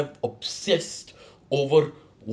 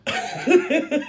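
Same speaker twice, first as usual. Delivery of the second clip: laughing. Real, not acted. Laughing at own joke.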